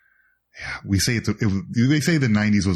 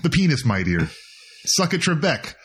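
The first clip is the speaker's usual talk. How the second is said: Connery impression; 5 semitones higher than usual. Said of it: "impressions of Connery".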